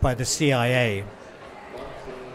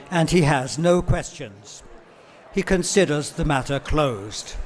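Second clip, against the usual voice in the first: David Cameron voice; 2 semitones higher than usual. Retold or imitated. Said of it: "I decided David Cameron".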